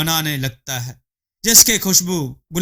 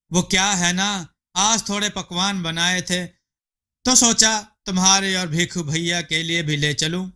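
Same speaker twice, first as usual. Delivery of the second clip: higher, friendly calling neighbour voice; 4 semitones higher than usual. Acted. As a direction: call her out of the house cheerfully. Rima explains gift.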